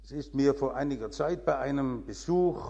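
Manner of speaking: ordinary talk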